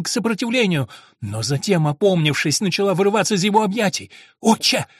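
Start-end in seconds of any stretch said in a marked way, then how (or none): 4.4-4.9 higher, louder frightened cry for help. A narrator's reading. Girl struggling against the monk: frightened higher, louder cry. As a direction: call his name in alarm, pushing him away. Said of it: "кричала она".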